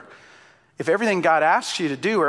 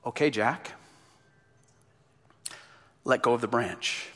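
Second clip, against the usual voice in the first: calm voice of God; 5 semitones lower, 5 dB quieter than usual. Acted. God gives calm instruction.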